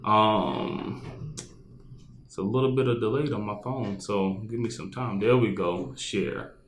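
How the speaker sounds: talking with gum in mouth; chewing gum. Real, not acted. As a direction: speak around a wad of gum. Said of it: "I just realized I have gum in my mouth".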